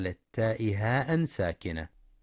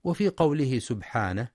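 normal talking voice

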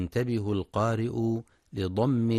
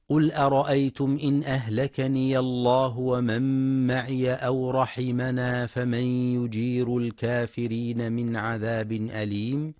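Quran recitation; 2 semitones higher than usual. Acted. Teacher recites a verse for listeners, measured chant.

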